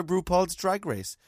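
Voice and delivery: slow, sassy drag host voice; drawn-out sashay away; RuPaul catchphrase. Retold or imitated.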